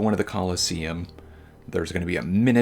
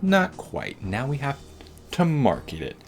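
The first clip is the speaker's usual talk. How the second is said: character voice; 8 semitones higher than usual. Retold or imitated. NPC Emilio voiced in retelling.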